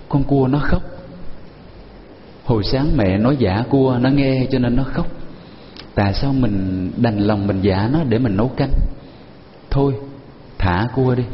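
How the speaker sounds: lightly voiced boy, sorry for the crabs; child's voice. Boy pities the crying crabs.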